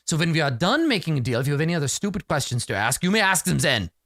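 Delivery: lightly voiced snobbish doctor; haughty doctor. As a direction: talk down as if to a bad smell. Doctor dismisses.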